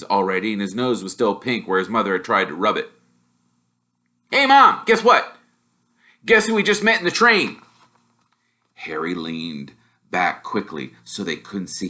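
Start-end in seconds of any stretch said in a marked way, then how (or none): 4.3-7.6 put-on high, eager kid voice blurting news; a boy bursting to tell his mum; higher, eager young twin calling out; excited boy twin.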